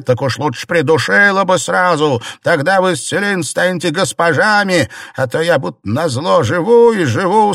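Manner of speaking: high, loud self-pitying rant; bitter tirade. A narrator's reading. Wife ranting at her defiant maid, high and loud.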